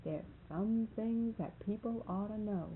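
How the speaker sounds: slow, solemn imitation; so serious. Marvin answers what he is trying to tell her, so serious. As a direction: weigh each word like a grave warning. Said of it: "he was so serious".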